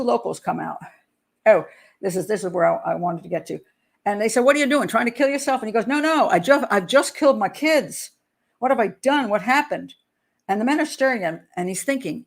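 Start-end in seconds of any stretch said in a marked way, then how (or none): 4.4-5.6 alarmed retold question. Locals confront the drenched man. 5.9-9.9 agitated, higher quote of a father; retold distress. Father to two locals after the crash, distraught.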